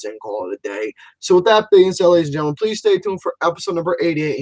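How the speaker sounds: announcer-style sign-off to the listeners; show sign-off. Acted. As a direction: wrap up the show like a host. Signs off the show.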